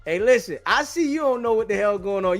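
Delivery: ordinary talk, nothing marked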